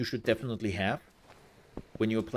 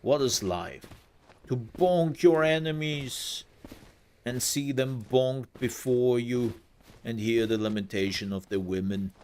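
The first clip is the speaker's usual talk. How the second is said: attempted Austrian accent; 3 semitones higher than usual. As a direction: have a clumsy go at an Austrian accent. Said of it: "I'm not capable of doing that accent".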